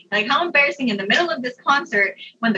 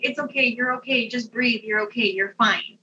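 soft bystander comforting, imitated; retold soothing reassurance; 4 dB quieter than usual. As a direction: reassure softly, as if calming someone down.

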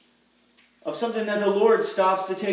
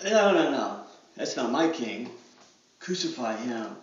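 much lower and softer, sinking down; scornful rejection; 9 semitones lower, 5 dB quieter than usual. Pretend. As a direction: drop to a cold, quiet refusal. Crowd rejecting when asked for life.

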